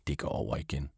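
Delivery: softly whispered reassurance. A narrator's reading. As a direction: breathe it out as a comforting whisper. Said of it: "Så hvisker hun til Sita". (blid hvisken)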